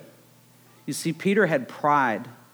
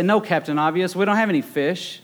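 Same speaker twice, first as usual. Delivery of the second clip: mock sarcastic disciples, pitched higher; sarcastic joke; 4 semitones higher than usual. Preacher jokingly voicing disciples to Jesus, sarcastic. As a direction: tease it, dripping sarcasm. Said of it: "No, I'm just kidding".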